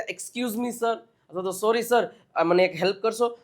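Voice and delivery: politely excusing yourself to a sir; a deferential, polite approach; polite request. Shown as a demonstration. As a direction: ask courteously, without pushing. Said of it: "એક polite વેમાં, એક એને સારું લાગે એ રીતે".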